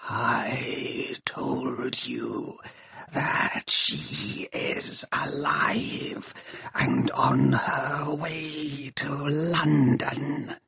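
slow, creaking machine whisper; dark whisper behind you. Acted. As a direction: hiss it like escaping steam. Shrike's voice held.

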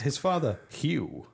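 lightly put-on Canadian accent. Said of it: "do a Canadian accent for us".

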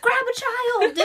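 high, loud laughing cry at him; exasperated yell. Retold or imitated. Wife yelling at husband to help with kids, laughing shout. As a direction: yell it half laughing, fed up. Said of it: "I'm like".

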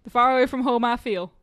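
attempted New York accent that sounds Southern; New York accent slipping Southern. Player retries a film quote, New York accent coming out Southern. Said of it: "No, that's just Southern".

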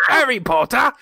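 high, loud, broad mock Rhode Island vowels; Rhode Island accent. Co-host mocking his own bedtime reading, hammed-up Rhode Island accent. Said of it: "if I had the Rhode Island accent".

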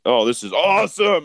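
high, loud mock delight; mock excited. A viewer gushing at a porn clip, hammed-up high delight.

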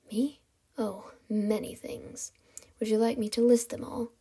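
soft, hollow villain voice; hollow, empty voice. Acted. Kidnapper teases captive about his wants, hollow voice. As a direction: toy with her in a hushed, empty tone. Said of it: "His voice was hollow, empty".

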